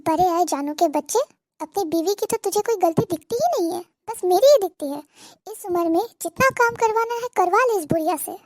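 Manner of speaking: loud, bitter scolding of her son; angry tirade. Acted. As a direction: lash out at the son, hurt and furious. सास बेटे पर भड़कती. (बेटे पर गुस्से से भड़कती माँ)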